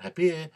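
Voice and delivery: HAPPY ending in a lax "ih"; final short I. Shown as a demonstration. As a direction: say "happy" as "hap-pih", last vowel short-i. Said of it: "in between an E and an I".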